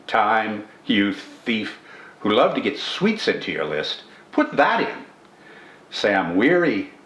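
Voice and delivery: unhurried reading of a short lyric poem; poem recitation. Acted. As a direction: recite it like a cherished memory. Reads the poem aloud.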